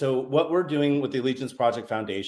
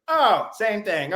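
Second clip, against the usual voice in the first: retold realization; 7 semitones higher, much slower than usual. Retold Marine's reaction to corpsman.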